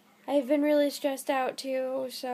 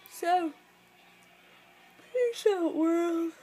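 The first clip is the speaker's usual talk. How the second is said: cheery sign-off; 3 semitones higher, slower than usual. Real, not acted.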